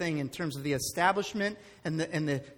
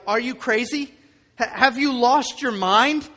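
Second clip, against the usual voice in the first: exasperated parent; 2 semitones higher, 6 dB louder than usual. Retold or imitated. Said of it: "you look at them and you're like".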